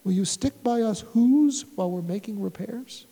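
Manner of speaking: a faint, far-off plea from a tiny mayor; small pleading mayor voice. Acted. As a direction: beg softly, as if from a speck of dust. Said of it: "pleaded the voice of the mayor".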